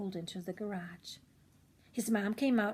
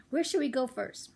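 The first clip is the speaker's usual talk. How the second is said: lightly voiced boy; 4 semitones higher than usual. Child character asks excitedly.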